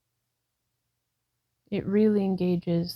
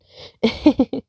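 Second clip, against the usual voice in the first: laugh; 4 semitones higher, 10 dB louder than usual. Real, not acted. Laughs at own mix-up.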